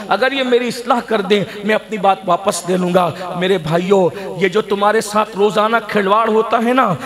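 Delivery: steady, insistent sermon delivery; earnest preaching. Real, not acted. Preacher challenges Muslims who neglect prayer, earnest preaching. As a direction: press the congregation with pointed admonition.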